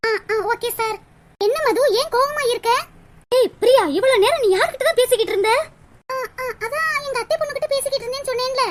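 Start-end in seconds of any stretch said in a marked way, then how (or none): 3.3-5.5 loud scolding, faster on the question; angry scolding. Acted. Angry friend Madhu confronts Priya about her long call. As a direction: scold her hard and fast.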